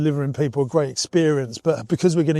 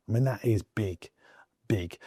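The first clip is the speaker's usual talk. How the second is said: unvoiced whisper, much softer; 4 semitones lower, 7 dB quieter than usual. Real, not acted. Vlogger telling viewers about the big screen, in a whisper. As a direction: breathe it like a secret. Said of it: "I don't know why I'm whispering".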